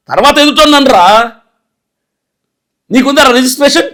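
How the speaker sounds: heated, insulting tirade; scolding a man who asked for accounts; angry rant. Real, not acted. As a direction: tear into the critic who questioned you.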